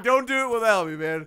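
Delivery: laughing as he retells begging his friend to wait; laughing mock plea. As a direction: plead through a laugh. Stalling friend, laughing while retelling.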